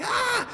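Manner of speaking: a sudden high yelp of alarm; jolted into a short high panicked cry; startled yelp. Retold or imitated. Reading the hospital reminder, a high startled yelp.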